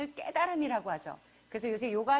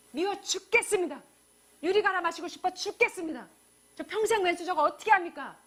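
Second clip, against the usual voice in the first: louder, pleading outburst; anguished complaint prayer; 4 semitones higher, 5 dB louder than usual. Shown as a demonstration. Preacher acts a worshipper venting to God, loud and pleading. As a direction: pour out the frustration. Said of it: "뭐 하셔야 돼요?".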